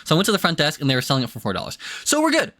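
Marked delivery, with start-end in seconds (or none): 2.0-2.5 high, bright burst of relief; squeaky relieved cheer; relieved squeal. Real, not acted. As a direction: chirp it out, problem solved. Relief after lock found.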